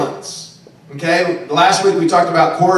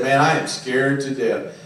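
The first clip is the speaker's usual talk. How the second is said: retold fear; 7 semitones lower, 7 dB quieter than usual. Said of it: "I said".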